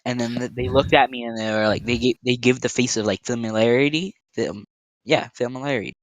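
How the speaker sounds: talking while chewing gum; words around a wad of gum. Real, not acted. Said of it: "I've gum in my mouth".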